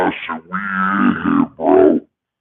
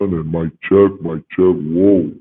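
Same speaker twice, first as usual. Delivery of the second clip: voice changer effect; slower than usual. Shown as a demonstration. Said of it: "switching up to the different voice options".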